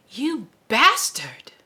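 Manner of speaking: slow, breathless whispered insult; whispered curse. Acted. Susanna hurls a hushed insult at Roland in shock. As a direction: spit it out under the breath, stunned.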